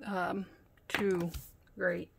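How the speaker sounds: breathless, halting words between breaths; short of breath. Real, not acted. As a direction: talk while out of breath and unwell. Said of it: "Sorry if I'm short of breath".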